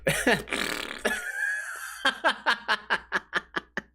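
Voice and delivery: high airy laugh; real amused laugh; laughing at himself. Real, not acted. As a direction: crack up at your own joke. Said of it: "laughing at myself here".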